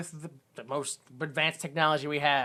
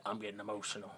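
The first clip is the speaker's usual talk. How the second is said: mock emotional quote; 9 semitones lower, 17 dB quieter, faster than usual. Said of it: "That's what he said".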